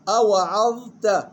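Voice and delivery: slow أوعظت, thin ayn and ta, held dha; light ayn and ta. Shown as a demonstration. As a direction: draw out أوعظت with an unemphatic final "ta". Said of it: "يلاحظ ترقيق العين والتاء". (أوعظت بترقيق العين والتاء)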